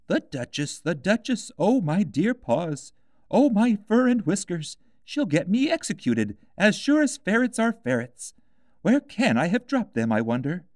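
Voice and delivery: high, anxious muttering rabbit; a nervous rabbit fussing to himself; fretful White Rabbit. A narrator's reading. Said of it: "muttering to itself".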